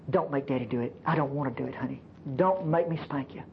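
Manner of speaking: put-on low, restrained plea to a child; pleading father. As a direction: imitate a reluctant dad, voice dropped. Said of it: "pleading with people".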